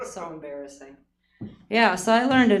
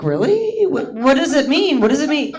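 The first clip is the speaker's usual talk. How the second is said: innocent surprise; 6 semitones higher than usual. Retold or imitated. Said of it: "I'm like".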